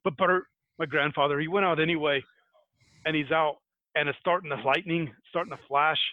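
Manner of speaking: lightly put-on Scottish accent; amateur Scottish storyteller accent; attempted Scottish accent. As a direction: carry the tale on in a rough Scottish lilt. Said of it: "I'm gonna give this a shot".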